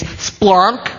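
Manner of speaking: "splonk" held long with a rising end; pronunciation demo. Shown as a demonstration. Preacher having people try again, drawn-out demonstration. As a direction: stretch "splonk" and leave it hanging. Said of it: "You're gonna try it again".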